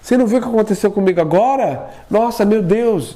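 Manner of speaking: high, urgent retold outburst; agitated telling. Husband rushing to tell wife, high excited outburst. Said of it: "corri, falei pra minha esposa".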